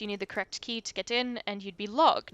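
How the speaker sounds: put-on light French accent, sly and teasing; a mild French ghost, coy. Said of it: "the accent".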